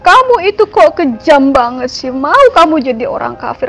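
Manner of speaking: imitating tearful mother. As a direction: plead like an upset mother, retold without real tears. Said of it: "dia cuma bisa nangis, dia bilang". (menirukan ibu memohon sambil menangis)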